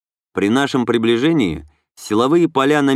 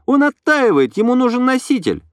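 light, higher female voice; young woman voice; 13 semitones higher than usual. A narrator's reading. Inna explains.

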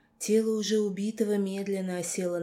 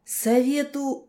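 high, loud, slow wail; howling cry; 7 semitones higher, 7 dB louder, slower than usual. A narrator's reading. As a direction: wail it in agony. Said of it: "взвыл Безрукий".

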